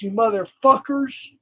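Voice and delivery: ordinary talk, nothing marked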